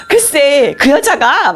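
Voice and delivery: high-pitched acted outrage; indignant tattling. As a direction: launch into a complaint about her. Tattling to husband by phone. (분해서 일러바치는 높은 목소리)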